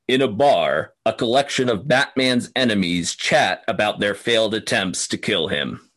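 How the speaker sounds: a touch of a booming announcer. Shown as a demonstration. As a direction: read it like a movie trailer announcer. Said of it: "I will do this in my best announcer voice".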